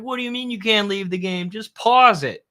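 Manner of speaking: imitating an exasperated dad, high-pitched; retold dad's yelling. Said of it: "my dad used to yell at me".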